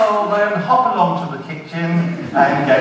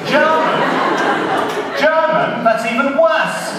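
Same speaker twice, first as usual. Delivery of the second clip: high, appalled double take; horrified, with a laugh in it; shocked disbelief; 9 semitones higher than usual. Acted. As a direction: recoil at the very idea. Diner offered German wine.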